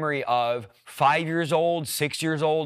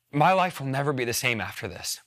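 emotional; 2 semitones lower than usual. Real, not acted. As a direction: hold back emotion while testifying. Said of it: "again, I get emotional".

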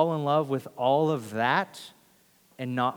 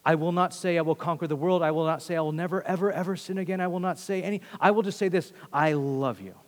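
pressing, raised-pitch run, settling at the end; earnest insistence; 3 semitones higher than usual. Acted. Peter tells Jesus what he will not say, earnest and insistent.

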